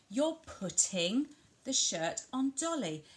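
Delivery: PUTTING stretched and set apart; stress on PUTTING. Shown as a demonstration. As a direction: commentate for a child, leaning on putting. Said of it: "you're emphasising those doing words".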